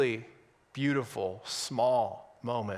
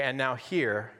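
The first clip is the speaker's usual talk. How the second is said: mock pastor announcement; 3 semitones higher than usual. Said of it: "this is where I would say".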